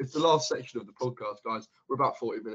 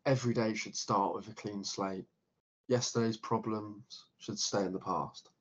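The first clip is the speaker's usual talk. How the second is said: trying not to laugh; 2 semitones lower, 4 dB quieter than usual. Shown as a demonstration. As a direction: read it dead serious, fighting a laugh. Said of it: "we gotta try not to laugh".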